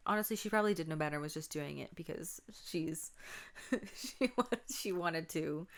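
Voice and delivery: whispered, confiding aside about her sister. Real, not acted. Vlogger whispering a confiding aside about her little sister. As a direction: drop to a whisper to let them in on it.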